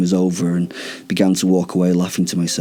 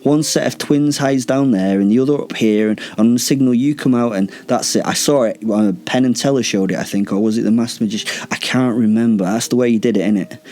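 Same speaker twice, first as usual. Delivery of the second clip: rattling on; 3 semitones higher than usual. Acted. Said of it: "I kept rattling on, trying to continue to speak inane nonsense".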